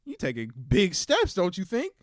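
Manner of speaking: lightly voiced stern teacher; a hint of a scolding mother; teacher mom. Mom scolding kids in class, lightly voiced. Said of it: "That's how she talked".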